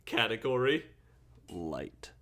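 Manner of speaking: slow, measured stat readout; announcer voice. Acted. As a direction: read the stats like an announcer. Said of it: "announcer voice".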